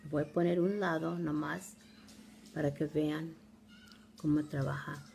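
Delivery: Spanish with an American accent. Real, not acted. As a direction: speak Spanish like an American learner. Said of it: "Disculpen mi español".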